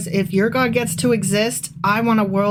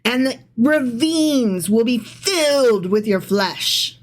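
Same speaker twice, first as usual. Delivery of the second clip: ominous reading; slower than usual. Acted. Reading God's threat dramatically.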